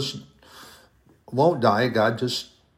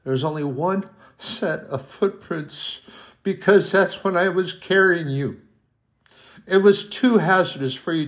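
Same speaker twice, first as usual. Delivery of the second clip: put-on higher, gently insistent voice of God comforting his child; voicing God tenderly; 3 semitones higher than usual. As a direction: speak as a loving Father reassuring the believer. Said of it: "he shakes his head and he goes".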